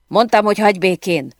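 acted furious shout, moderately loud; angry yell. A narrator's reading. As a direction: yell it like a man in a fierce quarrel. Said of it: "ordította a férfi".

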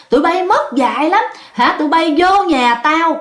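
put-on a possessed old man cursing the owners; lightly voiced angry ghost; scolding ghost voice. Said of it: "chửi quá trời luôn".

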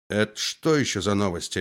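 usual speaking voice

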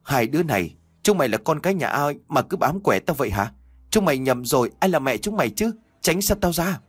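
put-on woman crying out at the clinging ghost children; shouting. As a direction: yell at them to get off you. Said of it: "cô liền hét lên".

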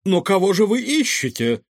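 high, baffled question; astonished. A narrator's reading. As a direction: ask in amazement, pitch up. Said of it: "изумлённо спросил Иннокентий Евгеньевич".

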